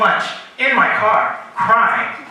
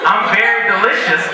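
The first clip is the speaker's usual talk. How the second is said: laughing through the quote; 4 semitones higher, 3 dB louder than usual. Retold or imitated. Student quote retold.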